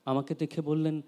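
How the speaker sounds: measured narrative poem reading; understated verse reading, phrase endings dropping away; poetry recitation. Acted. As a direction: recite in phrases with pauses between. Reads second poem aloud.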